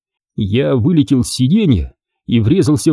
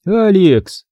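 proclaiming; 7 semitones higher than usual. Acted. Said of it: "провозгласила тётя Марта".

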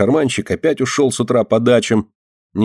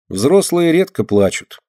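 slow, higher musing line; thoughtful; 7 semitones higher, slower than usual. A narrator's reading. Alina musing to mother, slow and thoughtful. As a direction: say it slowly, lost in thought. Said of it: "задумчиво говорит Алина".

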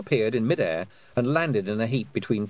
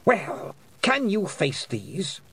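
slow, dangerous queenly challenge; drawing it out as a threat; slow menacing Queen; 8 semitones higher, much slower than usual. A narrator's reading.

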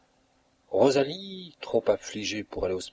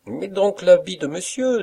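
high, louder playful cook; laughing cook; 10 semitones higher, 5 dB louder than usual. A narrator's reading. Cook playing dress-up with the valet, high and playful. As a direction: egg him on in a high, teasing voice. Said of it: "La rieuse cuisinière".

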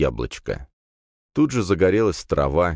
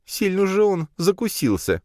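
higher, surprised remark. A narrator's reading. Nadya wonders at the oligarch, surprised. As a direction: marvel at the oligarch's grudge. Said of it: "удивилась Надя".

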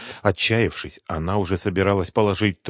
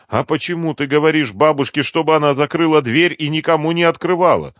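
higher, louder accusing question; angry demand; 9 semitones higher, 8 dB louder than usual. Acted. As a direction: friend fed up with being fooled. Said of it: "разозлилась Света".

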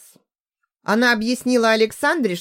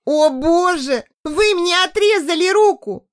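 wailing scream; 10 semitones higher, 4 dB louder than usual. A narrator's reading. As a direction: howl in despair. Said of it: "Ещё больше завопила".

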